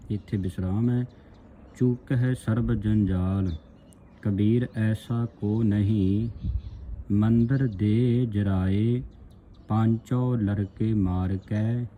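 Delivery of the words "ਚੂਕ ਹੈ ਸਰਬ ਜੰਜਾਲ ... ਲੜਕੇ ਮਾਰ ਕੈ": slow, measured verse reading; scripture recitation. Shown as a demonstration. Teacher reads Kabir's saloks for the congregation, slow recitation. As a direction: draw the vowels out, reciting evenly.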